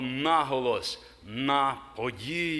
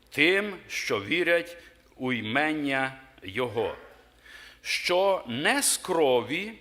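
scripture reading; 2 semitones higher than usual. Acted. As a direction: read it out solemnly, word by word. Reads Gospel of John aloud.

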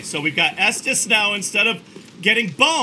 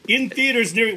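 movie trailer voice; 2 semitones higher than usual. Pretend. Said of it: "my trailer voice guy".

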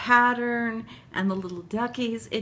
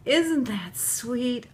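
usual speaking voice

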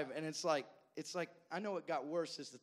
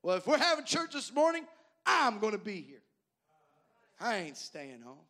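put-on higher, louder stubborn old member, slowing at the end; determined old man; 4 semitones higher, 9 dB louder than usual. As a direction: insist loudly, won't be kept home. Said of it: "He said".

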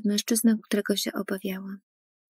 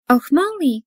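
higher, louder happy call of a name; glad cry; 5 semitones higher, 6 dB louder, slower than usual. Acted. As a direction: call out warmly across the cafe. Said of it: "krzyknęła do mnie właścicielka kawiarni".

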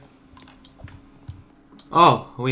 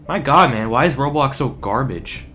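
exasperated; 3 semitones higher, 5 dB louder than usual. Real, not acted. Frustrated at laggy game.

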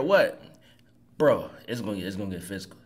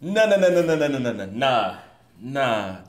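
rapid-fire string of no's, loud then sinking; real disbelief, tumbling downward; stunned refusal; 6 semitones lower, 4 dB louder than usual. Real, not acted. Stunned reaction to clip's insult.

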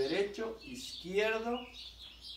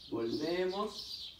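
drawn-out count; much slower than usual. Shown as a demonstration. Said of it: "coach paces the movement".

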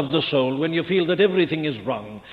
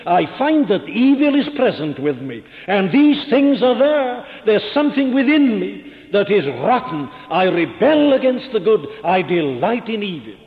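impassioned confession; 4 semitones higher, 6 dB louder than usual. Acted. Preacher voicing the sinner's confession.

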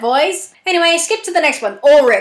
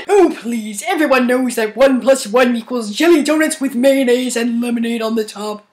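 Patrick Star voice; 3 semitones lower than usual. Acted. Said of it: "Patrick Star voice".

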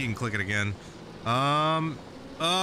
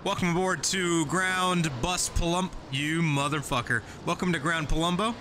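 fake Italian accent; 3 semitones higher than usual. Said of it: "the fake Italian man".

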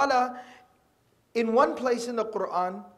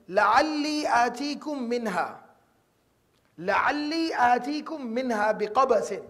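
slow Quran recitation; slower than usual. Acted. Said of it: "Then he goes on to say".

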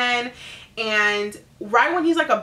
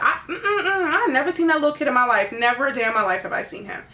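nervous stammering denial; 5 semitones higher, faster than usual. Acted. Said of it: "He's like".

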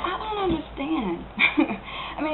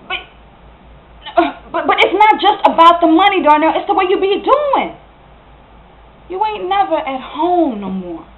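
higher, upset complaint; aggrieved reproach; hurt accusation; 5 semitones higher than usual. Acted. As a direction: confront an absent partner, voice rising. Acted quarrel, accuses him of absence.

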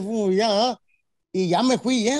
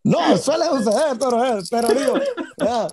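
laughing; 4 dB louder than usual. Real, not acted. Laughs at friend's joke.

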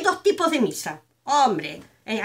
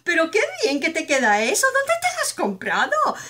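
sweet mother-in-law; 3 semitones higher than usual. Retold or imitated. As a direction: gush over her outfit like a doting mother-in-law. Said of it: "lo primero que te dice".

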